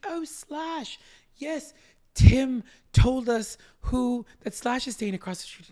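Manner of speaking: very high British lady; British accent. Retold or imitated. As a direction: put on a drawn-out, high British voice. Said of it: "in her British accent".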